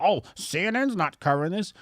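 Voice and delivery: whiny mock voice; mocking whine. Mocking the woke right's worry, whiny. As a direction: sneer it like a worried follower. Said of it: "You keep worrying about".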